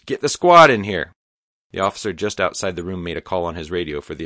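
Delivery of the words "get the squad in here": loud commanding bark; raised voice. A narrator's reading. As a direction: yell the order down the hall. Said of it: "raised his voice".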